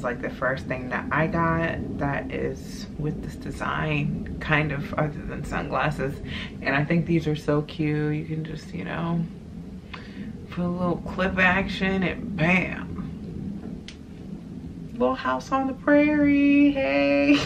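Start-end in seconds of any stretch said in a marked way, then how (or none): 0.0-6.2 whisper. Real, not acted. Unexplained drop to a whisper. 14.9-17.4 put-on high, chirpy little prairie girl voice. Vlogger showing off her hair clips, a high chirpy prairie-girl greeting.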